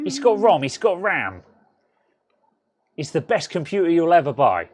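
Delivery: put-on Del Boy. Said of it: "He, he's Cockney".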